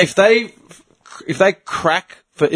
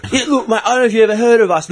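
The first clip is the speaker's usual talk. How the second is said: higher, quick mock sales patter; charity backpacker impression; 5 semitones higher, faster than usual. Charity backpacker pitching to a tired passer-by, imitated in a higher voice. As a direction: imitate a chummy collector launching his pitch. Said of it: "when you're doing his voice".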